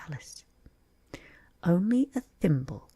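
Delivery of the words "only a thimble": sad. Acted. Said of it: "said Alice sadly".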